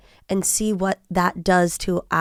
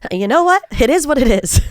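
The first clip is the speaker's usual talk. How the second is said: mock Travis Kelce; 4 dB louder than usual. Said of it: "he says".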